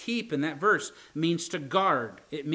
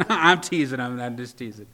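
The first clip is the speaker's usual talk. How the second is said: laughing it off; 3 semitones lower, 5 dB louder than usual. Real, not acted. Joke about wife, laughs it off.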